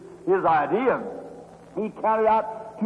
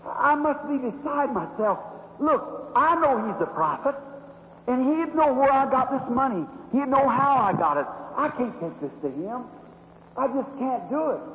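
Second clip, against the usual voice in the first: mild despair; 3 semitones higher than usual. Retold or imitated. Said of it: "She said".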